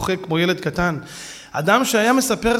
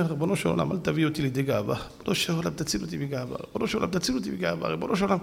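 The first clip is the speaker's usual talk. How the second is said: soft, murmured plea; quiet prayer; 3 semitones lower, 6 dB quieter, faster than usual. Retold or imitated. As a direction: pray softly under the breath. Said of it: "אני שומע את הרב כל הדרך, אומר". (תפילה חרישית ושקטה)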